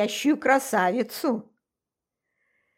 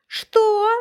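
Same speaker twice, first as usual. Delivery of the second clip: a jolted, higher, louder what; startled; 12 semitones higher, 7 dB louder than usual. Acted. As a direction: snap awake in shock. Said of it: "встрепенулась я".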